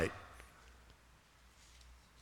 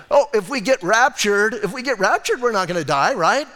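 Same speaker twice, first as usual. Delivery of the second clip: excited; 4 semitones higher, 4 dB louder than usual. Real, not acted. Joyful rapture point.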